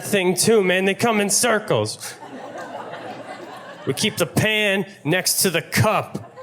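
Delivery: high, exasperated rant as the clerk. Retold or imitated. Fed-up clerk ranting at a customer, high and exasperated. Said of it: "what she meant to say was".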